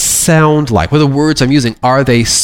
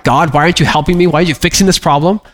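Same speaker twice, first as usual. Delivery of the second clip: complaining prayer; 3 semitones higher, much faster than usual. Retold or imitated. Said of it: "I know it's a complaint".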